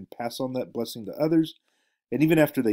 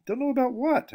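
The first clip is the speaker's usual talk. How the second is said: much higher, exasperated question. A narrator's reading. Narrator confused by the questions, higher exasperated ask. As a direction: throw up your hands and ask it. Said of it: "I said in exasperation".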